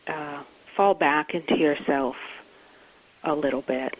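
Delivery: unhurried meditation guide with long pauses; guided meditation. Acted. Teacher inviting listeners to let go, guided meditation. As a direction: ease them gently in, phrase by phrase. Leads a guided settling exercise.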